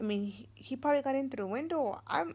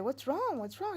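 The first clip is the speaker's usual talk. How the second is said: rising, higher worried question; anxious, pressing him to answer; alarmed asking; 5 semitones higher than usual. Retold or imitated. Mother asking her scared son what happened, alarmed.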